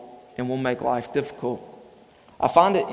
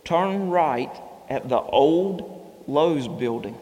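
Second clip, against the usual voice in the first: slow puzzled reading; slower than usual. Retold or imitated. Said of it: "I see this".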